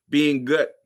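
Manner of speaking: words cut by a burp; a burp breaks the word. Real, not acted. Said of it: "excuse me, I'm burping".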